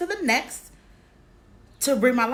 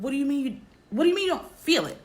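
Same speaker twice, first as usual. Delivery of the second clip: alarmed husband; 6 semitones higher, much faster than usual. Retold or imitated.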